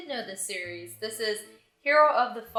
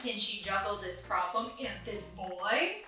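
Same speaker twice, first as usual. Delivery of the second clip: mock blurb voice. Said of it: "I feel like a lot of excerpts read".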